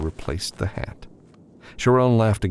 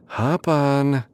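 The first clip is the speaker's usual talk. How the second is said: higher, brisk command; Sharon's voice; 8 semitones higher than usual. A narrator's reading. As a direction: order him up briskly.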